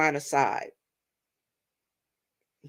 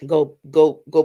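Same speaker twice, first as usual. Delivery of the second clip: shooing the dog; 3 semitones lower, 8 dB louder than usual. Real, not acted.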